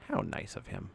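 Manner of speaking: whispered sarcastic aside. Real, not acted. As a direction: breathe the words with mock gratitude.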